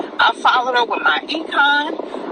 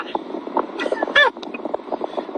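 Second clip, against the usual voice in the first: tearful laugh; 13 semitones higher, 5 dB quieter than usual. Real, not acted. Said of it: "I got to calm down because I said I wasn't gonna cry".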